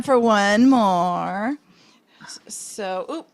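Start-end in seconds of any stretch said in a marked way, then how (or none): 2.2-3.3 whisper. Real, not acted. Hiding answer from guesser.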